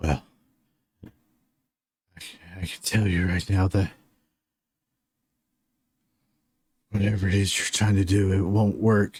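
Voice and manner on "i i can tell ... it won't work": winded, breathless voice. Voicing a wounded figure who answers a healer: winded voice. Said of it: "a very, um, uh, winded voice".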